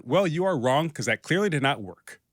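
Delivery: a touch of joking bluntness; jokingly blunt. Retold or imitated. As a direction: playfully tell them off. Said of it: "I'm joking here, obviously. I said it in a more polite way".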